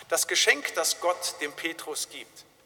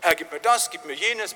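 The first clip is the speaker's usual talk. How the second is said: raised-voice mock pleading; mock demanding cry; 6 dB louder than usual. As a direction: demand it like a whining-for-more baby. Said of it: "wird geschrien". (fordernd gerufen, nachgeahmt)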